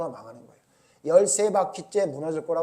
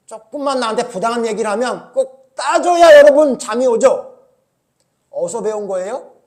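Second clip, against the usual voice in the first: loud, laughing, higher teasing; laughing mock jab; 5 semitones higher, 12 dB louder than usual. Real, not acted. Preacher teasing the congregation, loud laughing jab. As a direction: tease them through a laugh.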